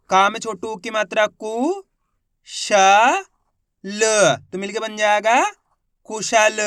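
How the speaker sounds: teacher spelling each syllable aloud; syllable-by-syllable reading. Shown as a demonstration. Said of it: "एक बार फिर से देखिए". (अक्षर-अक्षर ज़ोर से बोलकर पढ़ाना)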